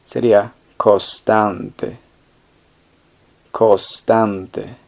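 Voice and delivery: "co-stan-te", with the n dropped; costante without n. Shown as a demonstration. Teacher shows "costante" drops the N. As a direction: say "costante" with no n before the s. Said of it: "sería sin la N".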